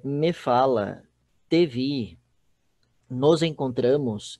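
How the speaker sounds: slow, loud "me fala, te vi, nos encontramos", each set apart; emphatic example-giving. Shown as a demonstration. Teacher showing pronoun placement in Portuguese, slow and emphatic. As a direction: spell out "me fala", "te vi", "nos encontramos" slowly and firmly.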